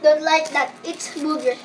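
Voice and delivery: chewing gross jelly bean; talking with a bean in mouth; mouth full. Real, not acted. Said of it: "It is so bad".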